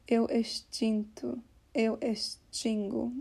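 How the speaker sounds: "eu extinto", "eu extingo" slowly, X between s and sh; shallow sh for X. Shown as a demonstration. Teacher demonstrating letter X, slow "eu extinto", "eu extingo" with shallow sh. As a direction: make a light, thin sh in "extinto" and "extingo". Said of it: "kind of a more shallow sound".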